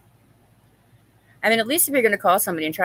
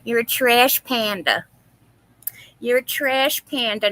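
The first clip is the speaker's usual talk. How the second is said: mock insult quote; 3 semitones higher, 5 dB louder than usual. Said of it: "she used to like to call people".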